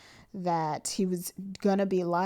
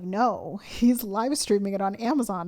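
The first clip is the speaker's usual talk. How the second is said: laughing friend; 6 dB louder than usual. Retold or imitated. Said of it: "she was like".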